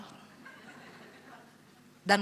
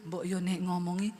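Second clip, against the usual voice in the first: lower, softer, gentle pleading; husband gently asks wife to talk softer; soft Javanese husband; 4 semitones lower than usual. Retold or imitated. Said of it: "Dia bilang".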